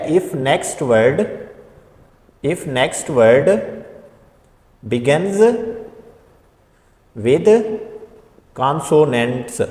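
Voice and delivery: very slow, word by word, with long pauses; slow dictation. Shown as a demonstration. Teacher dictating the rule slowly to the class. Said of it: "teacher dictating rule slowly".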